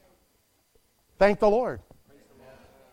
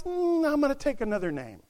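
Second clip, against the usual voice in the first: mock fickle bride; 4 semitones higher than usual. Voicing the bride's casual decision.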